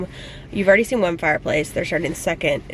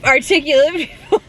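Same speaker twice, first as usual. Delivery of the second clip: mock posh; 8 semitones higher, 7 dB louder than usual. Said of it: "I'm just kidding".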